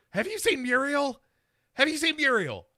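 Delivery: high, wailing mock madwoman; keen it like a lost, dazed woman; dazed woman asking a cop about Muriel, high mock wail; crazy woman. Crazy woman wandering at scene.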